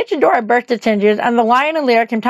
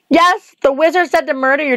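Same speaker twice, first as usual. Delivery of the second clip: put-on a light girlish pitch, lifted higher; young Dorothy; 4 semitones higher than usual. Dorothy answers the witch on the tower, higher girlish voice. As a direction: voice the girl a notch up.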